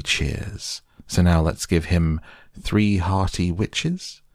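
measured verse with slow, drawn-out cheers; anxious verse recital. Acted. Pooh's anxious song to himself, recited in measured verse. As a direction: recite it as a little question-and-answer chant.

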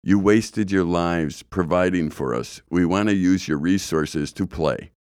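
slow, deliberate mocking paraphrase; sarcastic mock apology. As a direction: spell out the insincere apology slowly. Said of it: "here's what I heard".

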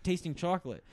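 lightly voiced blustering Wonka; mock rant. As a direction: rant like a cartoon candy boss.

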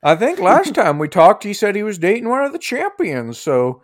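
put-on high, lilting gossipy old-lady voice; old lady innkeeper. Innkeeper gossiping about who he was dating, high old-lady voice. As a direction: pitch it up like a gossiping old woman.

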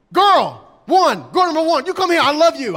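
loud, high barked summons; husband yelling love at his wife; mock shouting husband. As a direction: yell it like an order. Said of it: "imagine coming home and telling your wives".

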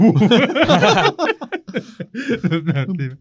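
a loud burst of high laughter; big laugh. Real, not acted. Host cracking up at the joke about renaming his baby, laughing.

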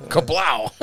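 loud high kablow; explosion sound. Pretend. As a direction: shout it like a blast. Sound effect after the joke.

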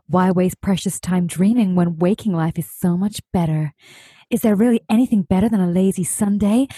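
breathless gossip narrator voice; a light hint of the Gossip Girl narrator; Gossip Girl impression. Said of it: "shall I do my best Gossip Girl impression".

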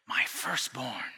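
low, slow, sarcastic "My firstborn"; ironic letdown. Acted. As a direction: drop it with dry irony. Ironic repeat, let down.

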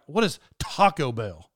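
slow, puzzled mimicry leaning on "Taco"; mock stress on Taco. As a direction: exaggerate "Taco" to mock the buddy. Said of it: "Why don't you talk normal?".

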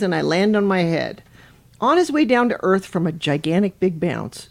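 lively storytime narration; animated bedtime-story reader; picture-book read-aloud. Acted. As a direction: read it to children with a lilting swing.

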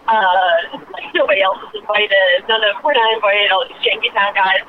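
ordinary talk

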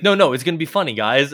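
high, loud, forced cheer; insistent sock puppet. Retold or imitated. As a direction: push it like a puppet pretending he's fine. Sock puppet insisting it's funny.

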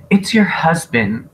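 mock impatient. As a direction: blurt it at someone who won't stop crying. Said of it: "she's all crying and Annie was like".

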